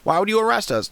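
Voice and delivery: high mock-innocent whine; mocking high whiny voice putting on innocence. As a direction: parody their innocent excuse. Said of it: "that they're like".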